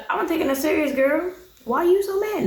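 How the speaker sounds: playful, high-pitched put-on quote; mocking imitation. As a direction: make his excuse sound ridiculous. Mockingly voicing the man's excuse.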